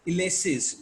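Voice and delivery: "इलेसिस" opening on a short i, not yoo; Ulysses pronunciation. Shown as a demonstration. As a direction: say "इलेसिस" with an initial ih sound. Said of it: "इसको इलेसिस".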